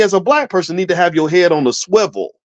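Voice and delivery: ordinary talk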